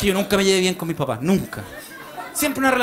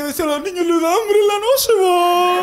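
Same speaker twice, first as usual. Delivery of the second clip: bad Argentine accent; 8 semitones higher, 4 dB louder than usual.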